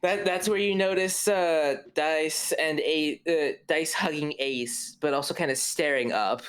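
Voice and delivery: high, shaky frightened voice; panicked and injured; scared high voice. Acted. Frightened characters in the scene.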